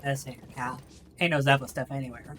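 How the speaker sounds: put-on Southern accent. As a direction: play a country boy from the South. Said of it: "now I just get to do the Southern accent".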